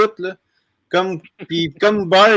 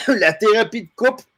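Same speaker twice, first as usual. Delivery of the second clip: choking on a bug; coughing up a swallowed fly; just swallowed a bug; 3 semitones higher than usual. Real, not acted. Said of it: "j'ai avalé une mouche noire".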